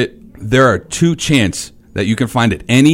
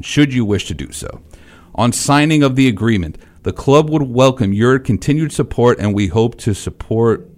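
stiff official reading voice; measured formal read of a letter. Acted. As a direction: read it like a club statement. Reads out a ban letter.

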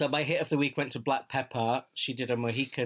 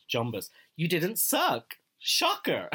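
imitating RuPaul; 5 semitones higher, much slower than usual. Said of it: "RuPaul in the critiques saying".

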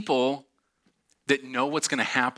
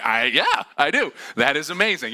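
gleeful half-scream; 5 dB louder than usual. Retold or imitated. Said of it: "added with a little bit of scream".

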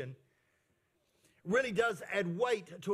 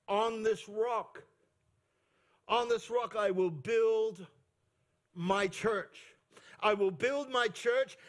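preaching; slower than usual. Acted. Preacher quoting Jesus, slow.

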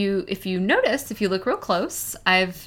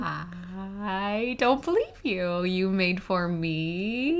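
mock hurt; 6 dB quieter, much slower than usual. Pretend-hurt, no gift back.

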